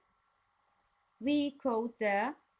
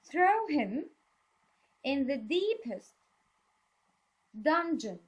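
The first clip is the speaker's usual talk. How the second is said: angry advisor; 3 semitones higher than usual. Shown as a demonstration.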